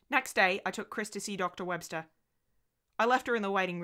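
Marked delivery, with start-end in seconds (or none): none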